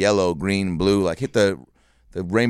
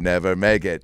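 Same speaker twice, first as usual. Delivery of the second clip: mock triumphant shout; 3 semitones lower than usual.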